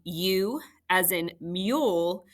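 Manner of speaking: U said like "you", as in mule; long U sound. Shown as a demonstration. Teacher shows families the first U sound, long U sound. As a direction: give U its "yoo" sound. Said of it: "review the two U sounds".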